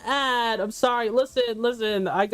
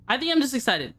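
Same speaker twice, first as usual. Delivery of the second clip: mildly excited, slightly lifted; a touch of excitement; lively, explaining yourself. Real, not acted.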